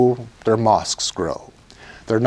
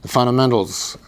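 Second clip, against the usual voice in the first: fundamentals leaned on, falling at the end; stress on fundamentals; 2 semitones higher than usual. Shown as a demonstration. Preacher stresses a key word to the congregation, firm emphasis. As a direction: press down on fundamentals and let it fall. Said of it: "I stress the word fundamental".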